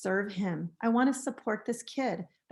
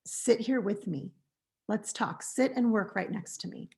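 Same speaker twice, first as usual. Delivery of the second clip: calm; 3 dB quieter than usual. Shown as a demonstration.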